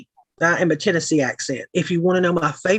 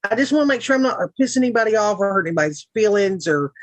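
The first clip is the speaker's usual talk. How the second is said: ordinary talk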